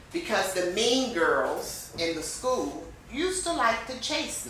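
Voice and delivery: animated storytelling speech with rising and falling pitch; vocal variety. Shown as a demonstration. Teacher demonstrating a speech for students, with lively vocal variety. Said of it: "a very short speech with vocal variety".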